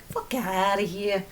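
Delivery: slow New Jersey drawl, kept to yourself; a private New Jersey brush-off; quiet New Jersey accent. Shown as a demonstration. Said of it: "even when you keep it to yourself".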